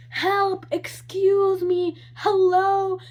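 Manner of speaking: high, loud desperate calls; yelling for any nurse to come; mock scream for help. Lady in waiting room screaming for help, high and loud. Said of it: "she was screaming".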